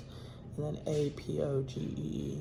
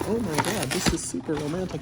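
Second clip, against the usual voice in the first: mock freaking out; 2 semitones higher, 6 dB louder than usual. Imitating a woman freaking out over a romantic date, excited. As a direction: gush loudly, imitating someone swept away. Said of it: "she's freaking out like".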